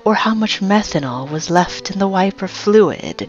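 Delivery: slow, stretched snake delivery; talking snake. Acted. Snake warning the man about methanol, slow drawn-out creature voice. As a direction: draw out key words in a creature voice.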